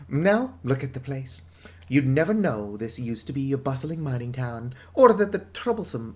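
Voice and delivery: a hint of a proud, weary townsman; lightly voiced villager. Villager greeting the newcomers, lightly voiced. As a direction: read the villager's welcome with some flair. Reads villager's lines in character.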